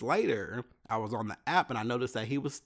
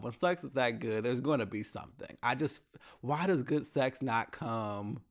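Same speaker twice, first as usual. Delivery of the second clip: ordinary talk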